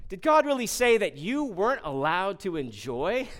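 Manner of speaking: sly, scoffing questions with a laugh; mocking serpent. Preacher voicing the serpent tempting the woman, sly mockery. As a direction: sneer at God's rules to tempt her.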